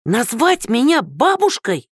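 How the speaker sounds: high, slow wounded outrage; offended shriek. Acted. Woman insulted at being called grandma, high and slow. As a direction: drag it out, deeply insulted.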